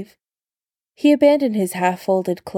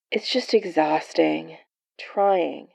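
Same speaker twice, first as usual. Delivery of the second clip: weary, softer complaint; complaining; 4 dB quieter, slower than usual. Acted. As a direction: grumble it quietly. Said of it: "Steve complained".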